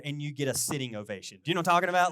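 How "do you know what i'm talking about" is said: loud, higher question flung at the room; a preacher's loud call to the crowd. Real, not acted. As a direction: throw it out to the whole congregation. Calling out to the crowd.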